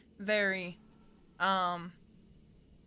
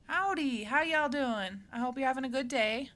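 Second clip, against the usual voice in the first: higher, folksy Southern greeting; friendly Southern howdy; Southern accent; 4 semitones higher than usual. Pretend. Streamer greeting everyone, playful Southern accent.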